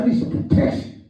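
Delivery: unvoiced whisper of a request; hushed mock plea. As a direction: whisper it like a secret need. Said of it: "He said".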